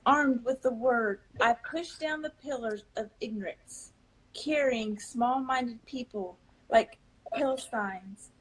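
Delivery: spoken-word poetry, measured and rhythmic; poem recital. Acted. Poet reciting her own verse at the reading, spoken-word style. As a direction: deliver each line like a performance poem.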